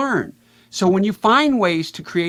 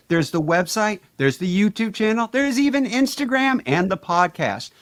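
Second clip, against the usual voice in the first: commercial pitch. Pretend. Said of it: "pitch, as if you're doing a commercial".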